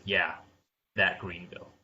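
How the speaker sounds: smug, condescending put-down. Retold or imitated. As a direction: taunt it like a smug ad. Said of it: "almost condescending, smug voice".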